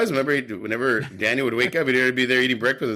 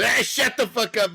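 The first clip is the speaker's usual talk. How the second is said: mock Miyagi; 7 semitones higher than usual. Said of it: "And he says".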